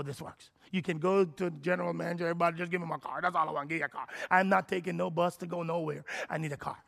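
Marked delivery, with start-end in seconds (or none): 2.2-6.8 arrogant demand. Retold or imitated. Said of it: "Do you hear the arrogance behind everything I'm saying".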